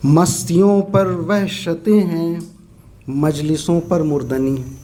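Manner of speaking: slow, measured Urdu verse reading; poetry recitation. Acted. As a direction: recite slowly, letting each half-line stand alone. Recites a second nazm.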